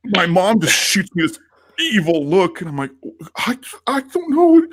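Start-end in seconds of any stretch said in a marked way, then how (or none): 3.4-4.7 high, stammered retold excuse; flustered denial. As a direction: squeak it out under mom's evil look. Flustered under mom's evil look.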